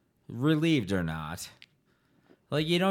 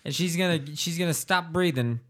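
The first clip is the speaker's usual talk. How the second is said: excited mock telling; 8 semitones higher, 5 dB louder, faster than usual. Excited retelling of the son.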